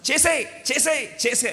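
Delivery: high, pushy urging whisper of the mind; tempting inner voice egging on. Retold or imitated. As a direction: egg yourself on, do it do it. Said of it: "మన మనసు ఏమంటుంది".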